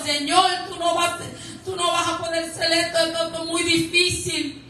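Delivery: lightly acted helpless protest; acted despairing complaint. Acts out believer's despairing complaint.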